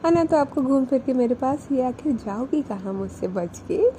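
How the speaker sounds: lightly voiced shy coyness; coy and a little bashful, teasing back; hint of a shy girlfriend teasing; a bit shy. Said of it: "थोड़ा सा शाय feel करते हुए बोलती है".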